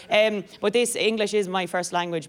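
ordinary talk

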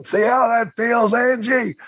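high, slow mocking taunt; a high, drawn-out drunk taunt. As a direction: jeer it up high like a drunk bully. Terry taunting Angelo, retold.

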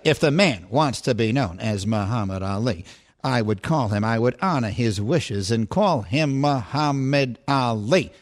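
measured broadcaster cadence, low and deliberate; Howard Cosell impression. Shown as a demonstration. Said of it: "If I were doing Howard Cosell".

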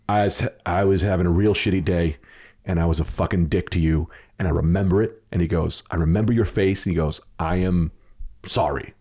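sincere apology. Retold or imitated. Clerk earnestly apologizes in retold story.

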